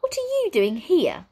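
put-on a startled young girl's voice; Nine, startled. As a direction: blurt it out, alarmed. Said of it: "It's Nine speaking".

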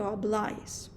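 «аблаїс» with the accent on the «а» of the ending; teacher showing where «аблаїс» takes its stress. Shown as a demonstration. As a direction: lean on «а» in «аблаїс». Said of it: "то наголос на літеру «а»".

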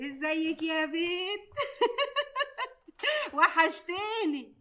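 slow, laughing phone greeting. Acted. Aunt laughing warmly greeting Karima on the phone.

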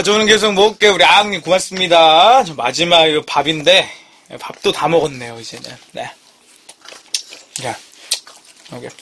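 talking between bites; eating while talking. Real, not acted. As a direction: mouth partly full. Seen 0: Holds rice bowl, scraping with chopsticks, likely bites while talking.

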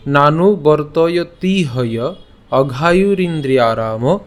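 slow, measured Sanskrit verse recitation; deliberate shloka reading, word by word; pronunciation recital. Shown as a demonstration. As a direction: draw out the long syllables for learners. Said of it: "উচ্চারণটা কেমন হচ্ছে".

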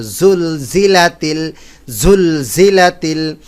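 জুলজিলাতিল with a buzzing, vibrating z; z sounds shaken loose in জুলজিলাতিল. Shown as a demonstration. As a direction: let the z in জুলজিলাতিল buzz out. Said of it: "ঝেড়ে ফেলার মতো উচ্চারণ হবে".

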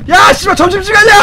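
fast, loud schoolyard shout; excited lunch call. Pretend. Schoolboy yells lunch time at classmates, fast excited shout. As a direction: hurry everyone like the bell rang. Kids rushing like lunch bell.

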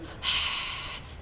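breath puffed out to warm up; cold winter breath. Shown as a demonstration. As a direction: huff out into the cold air. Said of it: "we make like this".

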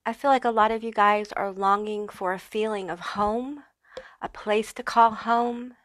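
slushy lisp on the s sounds. Real, not acted. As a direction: speak with a light lisp, s turning to sh. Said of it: "excuse my lisp here".

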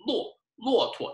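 teacher modelling neutral tone; model word. Shown as a demonstration. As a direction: lift 骆驼 high, let 驼 float. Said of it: "it just kind of floats".

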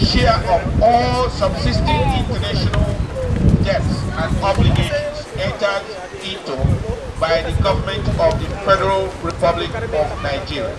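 solemn, deliberate declaration read aloud; formal proclamation speech. Acted. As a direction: proclaim it like a head of state. Reads the Biafran declaration aloud.

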